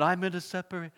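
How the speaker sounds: mock British accent for a small child's vow; lightly hammed-up British; bad British accent. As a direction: put on a terrible British accent. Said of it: "I took a British accent".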